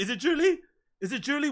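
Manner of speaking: soft, half-to-himself question; quiet, wondering aside. Real, not acted. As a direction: drop your voice and ask it aside.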